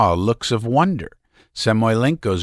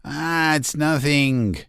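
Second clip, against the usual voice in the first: laughing and crying; 6 semitones higher, slower than usual. A narrator's reading. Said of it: "laughing and crying".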